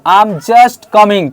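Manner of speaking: slow, clear teacher model; slow model sentence. Shown as a demonstration. Teacher slowly models a line for students to repeat. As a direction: say it slowly for the class. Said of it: "क्या बोलेंगे?".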